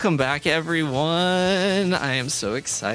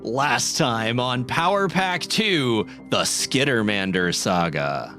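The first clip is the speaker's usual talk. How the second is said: announcer voice; 4 semitones lower, slower than usual. Acted. Recap intro like TV announcer.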